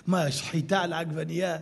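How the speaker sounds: laughing through a mock question; laughing quote. Preacher laughs retelling the vendor's joke, laughing. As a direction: say it while chuckling.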